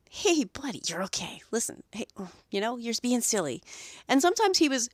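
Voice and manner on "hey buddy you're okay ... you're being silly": jolly him up. Retold or imitated. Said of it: "jolly him up again".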